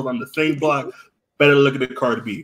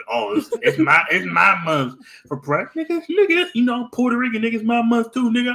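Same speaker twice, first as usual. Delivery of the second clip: indignant rival; 7 semitones higher than usual. Acted. Puerto Rican claiming Pride month too, indignant. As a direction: voice jumping into high-pitched protest.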